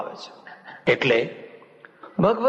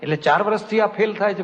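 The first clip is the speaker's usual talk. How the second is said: disbelieving question, pitched higher; incredulous; 6 semitones higher than usual. Retold or imitated. Preacher retelling his astonishment to the mother, higher incredulous question. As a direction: react as if you can't believe it. Monk astonished at four years' tuition.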